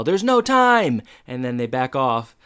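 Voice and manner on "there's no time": high, slow mock yell; rushed yell. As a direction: hurry them, no time to lose. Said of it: "then they yell".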